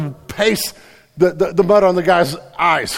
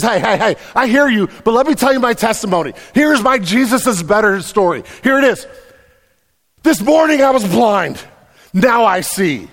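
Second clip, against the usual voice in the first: higher, louder, fast and eager; bold testimony; 4 semitones higher, 3 dB louder than usual. Acted. Healed blind man answering the religious leaders, triumphant. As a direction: announce it like the best news ever.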